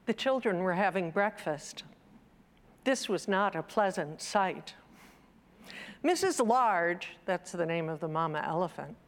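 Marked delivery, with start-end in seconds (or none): 0.0-7.2 story narration. Acted. Preacher reading a children's book to listeners, gently storytelling. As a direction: lightly read picture-book narration. Reads the picture book aloud.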